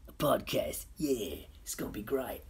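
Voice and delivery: whispered to himself; breathy excited whisper to himself. Real, not acted. Whispering to himself about the podcast.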